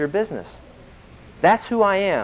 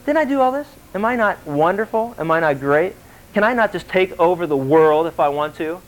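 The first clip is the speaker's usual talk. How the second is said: mock bragging in rhetorical questions; Donald Trump. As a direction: lightly act out a self-admiring tycoon. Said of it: "that's exactly what he'll say".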